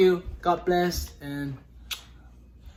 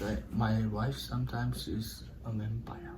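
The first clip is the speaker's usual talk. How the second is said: whispered joke; 5 semitones lower, 8 dB quieter than usual. Pretend. Whispered joke about wife.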